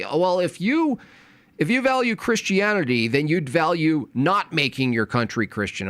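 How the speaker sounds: high mocking voice of an opponent.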